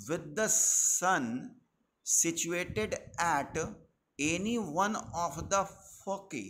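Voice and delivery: very slow, word by word dictation for notes; teacher dictating the definition of Kepler's law, very slow. Acted. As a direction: spell out the law slowly so students can write it down.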